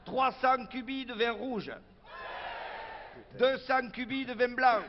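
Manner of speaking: proud, emphatic item-by-item announcement; meeting budget announcement. Acted. Local official presenting the supplies budget to activists, formal announcing. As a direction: announce it ceremoniously to the assembly.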